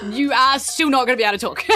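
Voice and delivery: giggling through the words; half-laughing as you tease; laughing quote. Retold or imitated. GM teasing a player, laughing through it. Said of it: "I was gonna be like".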